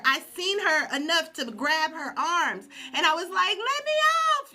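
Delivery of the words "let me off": high, loud desperate cry; pained cry. Retold or imitated. Grabbing the coach's arms, crying out to be let off. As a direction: plead to be let off.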